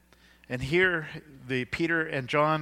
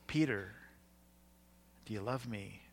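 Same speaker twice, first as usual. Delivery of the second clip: gentle questioning; 3 semitones lower, 8 dB quieter than usual. Retold or imitated. Jesus asks a third time, retold.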